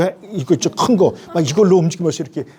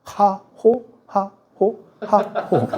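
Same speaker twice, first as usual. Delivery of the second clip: panicked short prayer; 4 semitones higher, much slower than usual. Retold or imitated. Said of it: "이걸 확 줄여버렸어요. 두 단어로".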